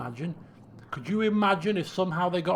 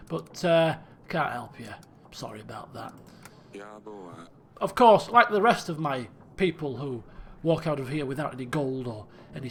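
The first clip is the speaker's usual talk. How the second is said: low, formal royal refusal; regretful king; 4 semitones lower than usual. Acted. King sending a peasant away with only blessings, formal regret. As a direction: dismiss them politely, sinking to softness.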